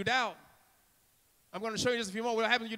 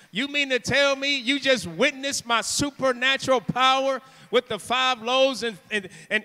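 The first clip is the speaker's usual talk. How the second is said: loud, raised preacher's disbelief; forceful, indignant questioning; incredulous rebuke; 3 semitones higher, 5 dB louder than usual. Acted. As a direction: scold them in amazement. Voices Jesus rebuking the disciples.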